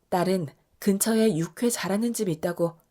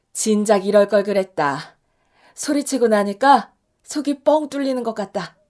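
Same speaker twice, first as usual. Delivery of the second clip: 후련한 기쁨; 6 dB louder than usual. Acted. 속 시원한 엄마의 한마디.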